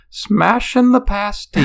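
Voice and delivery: high-pitched, drawn-out fake British accent; bad British accent. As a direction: imitate a poor attempt at a British accent. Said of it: "tried to do a British accent".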